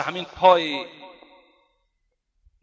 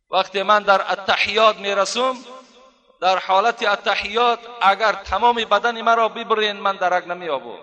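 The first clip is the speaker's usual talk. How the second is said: higher-pitched, insistent declaration; quoted vow in a raised preacher's voice; emphatic assurance; 4 semitones higher than usual. Retold or imitated. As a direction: lift the pitch and hold it up. Acting Urwa's assurance to doctors.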